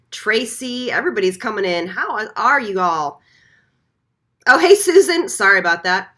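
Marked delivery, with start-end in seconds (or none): 4.5-5.3 higher and louder, delighted hello; light up as she spots a friend; happy surprised hi to a viewer; excited greeting. Real, not acted. Greeting a viewer who joined.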